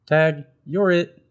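high, loud, slow playground taunt; cheeky bird starting a chase game; playful Bird. Acted. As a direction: call it out gleefully as you run off. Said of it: "He tapped Beaver on the arm".

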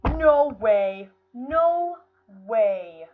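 loud, stunned outburst; shocked disbelief. Real, not acted. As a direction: cry out in loud, genuine shock. Shocked at failing the level.

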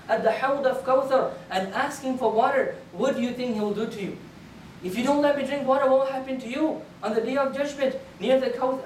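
earnest storyteller's voicing of a plea; retold plea. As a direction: plead with a crowd, warning them. Retold plea for water before enemies.

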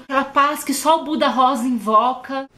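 ordinary talk

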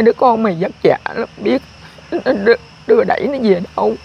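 mother retelling her prayer to her dead son, pleading; retold prayer. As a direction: beg the son's spirit, gently. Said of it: "chị nói hoài với ông ơi".

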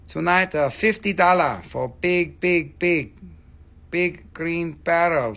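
mock hawker. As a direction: pitch the bargain like a market hawker. Hawking price in broken English.

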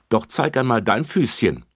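officer asks Bärbel to show her foot; kind officer. Acted. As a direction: coax the child gently. Officer to child.

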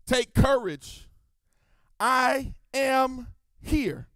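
calm reassurance. Acted. Jesus quoted slowly.

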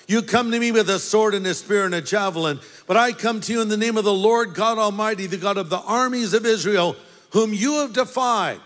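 fast, driving and defiant; shouted reply. Acted. David answering the giant Goliath before battle, fast defiant shout. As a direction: fire it back at the giant with fast conviction. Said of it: "David shouted in reply".

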